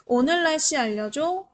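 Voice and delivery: clear, deliberate command to phone; talking to voice assistant. Shown as a demonstration. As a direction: speak up clearly so the phone hears. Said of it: "이런 식으로 음성으로 검색하시면".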